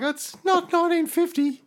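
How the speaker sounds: high squeaky put-on voice; squeaky mock voice. Mocking an old-fashioned tip, high squeaky voice. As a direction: squeak it like a cartoon.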